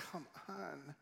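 soft, gently coaxing plea; a quiet, kindly nudge. Acted. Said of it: "And he's kind about it".

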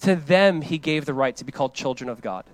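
slow, deliberate reading of the verse; slow scripture reading. Shown as a demonstration. Preacher reading John to the church, slow and deliberate. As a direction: read every word slowly. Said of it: "verse twelve says this".

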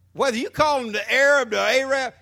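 "Arab" hit loud in both phrases; stress on Arab. Shown as a demonstration. Pastor mocking the phrase "the Arab" with loud stress on Arab. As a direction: lean into the word "Arab" to mock its use. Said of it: "When Geshem".

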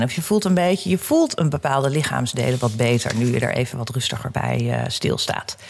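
calm guiding voice, unhurried; guided meditation. Acted. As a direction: lead them gently through breathing. Guided breathing exercise.

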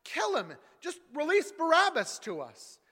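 high, loud mob yell; crowd shouting. Acted. Crowd demanding Barabbas from Pilate, shouting. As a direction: roar it as one furious crowd. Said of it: "they shouted".

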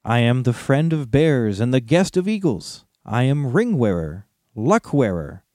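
proud little hobbit, riddling. Acted. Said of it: "went on Bilbo".

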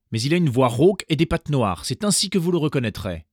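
high, loud anxious mother warning; a worried mother goat warning her little ones. A narrator's reading. Mother goat warning her kids before leaving, anxious and high.

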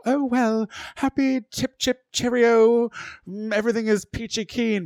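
chirpy fake-cheerful voice, very high; Max. Ginger mocking Max's on-camera act, high fake cheer. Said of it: "Max is all".

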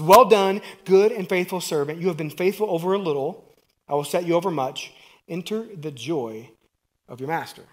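master's booming blessing; proud praise. Acted. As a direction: proclaim it proudly. Master praising second servant.

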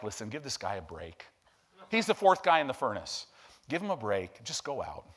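a relaxed, gentle aside to the king; Jesus, calm. Retold or imitated. Preacher voicing Jesus in the furnace, low and gently relaxed. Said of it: "Jesus is like".

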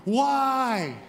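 high, drawn-out wail of betrayal; anguished cry. Acted. Preacher voicing the betrayed king crying out in the chapel, anguished cry. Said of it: "he's just crying out".

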